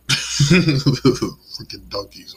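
high, loud, slow words through real laughter; laughing. Real, not acted. Vlogger cracking up at donkeys, laughing.

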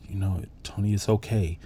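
softly retold comfort, easing down; quiet, tender imitation of a consoling wife; gentle reassurance. Wife to her dying husband, gently reassuring. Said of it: "She comes up and smiles".

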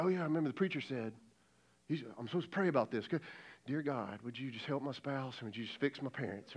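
low, soft, perfunctory mumble; grudging dutiful prayer. Acted. Sulker praying for spouse after a fight, half-hearted.

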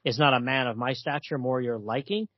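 lightly voiced courtly vampire; a hint of a suave count, slightly low; Dracula. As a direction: read it as a formal, wooing villain. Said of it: "Dracula then, it looks like he comes over".

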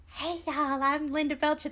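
lightly attempted cartoon impression; half-hearted go at a cartoon character's voice; Linda Belcher. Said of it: "That was a terrible impression".

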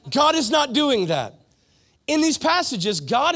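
laughing. Real, not acted. Preacher laughing after mocking a mirror pep talk, laughing. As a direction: laugh through the denial. Laughs at his own joke.

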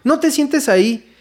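put-on high, slow waiter's question to the boy; waiter calling out. Mesero le pregunta al niño por su nombre, voz alta y lenta. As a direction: call the kid's name a bit high and drawn out. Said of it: "haz de cuenta, dice".

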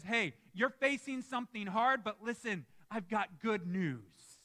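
calm, friendly announcement of good news; mild gentle telling. Shown as a demonstration. Prophet gently telling the people of good news, calm. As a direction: ease into the good news, no push. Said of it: "he doesn't even say that like that".

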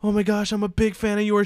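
mildly gushing mock fan; excited fangirl. Fan meeting Brett Favre, mildly excited fangirl imitation. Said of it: "She's shaking at this point".

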